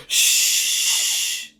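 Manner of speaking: a sharp unvoiced shush; hushing whisper. Recruits on the bus hushing him, a whispered shush. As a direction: hush him like the whole bus turning on you. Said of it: "everyone turns around and goes".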